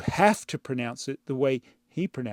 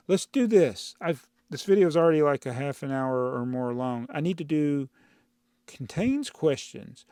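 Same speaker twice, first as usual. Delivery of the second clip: usual speaking voice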